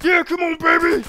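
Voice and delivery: high, loud whoop; a gamer egging on a fight; hype cheer. Real, not acted. Cheering in game.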